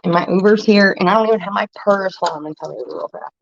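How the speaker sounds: tipsy, a little loose. Real, not acted. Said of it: "I'm getting drunk".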